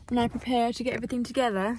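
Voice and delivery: a vague put-on accent, not British; botched unidentifiable accent. Vlogger telling viewers her plans, botched put-on accent. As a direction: attempt an accent you can't quite place. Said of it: "I don't know what accent I was going for".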